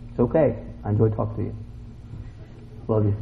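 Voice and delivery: soft, low, mock-tender answer; gentle forgiving reply. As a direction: answer an insult softly and kindly.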